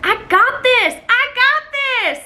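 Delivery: high, pumped self-hype; excited self-pep talk, drawn out; psyched up. Retold or imitated. Psyching herself up to kiss.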